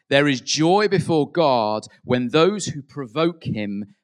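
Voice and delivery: loud, slow, harsh pronouncement; stern Pharisee. Retold or imitated. Quoting Pharisees to a congregation: loud stern decree. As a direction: proclaim it like a judging Pharisee. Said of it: "there was a saying amongst the Pharisees".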